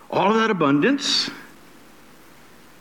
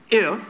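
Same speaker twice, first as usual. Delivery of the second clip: "if" set alone between pauses; stress on "if"; 2 semitones higher than usual. Shown as a demonstration. Preacher marks the condition in scripture, stressing "if". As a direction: isolate "if" as the condition. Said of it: "I emphasize the word if twice".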